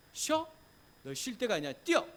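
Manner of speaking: high, loud mock drill-sergeant yelling; harsh driving God. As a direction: push them on like a harsh coach, shouting. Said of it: "막 그렇게 하실까요, 하나님이?".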